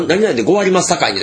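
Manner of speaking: put-on lightly demonstrated old Semba merchant dialect. Shown as a demonstration. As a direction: lilt it like old Osaka Semba speech. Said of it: "船場の言葉って". (軽く真似た船場言葉)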